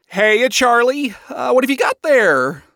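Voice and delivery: high, bouncy dad voice; Lucifer. A narrator's reading. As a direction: pop up eagerly with a curious question. Lucifer pops up beside his daughter.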